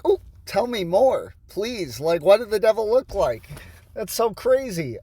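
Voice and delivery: sarcastic fake interest. Reacting to devil story.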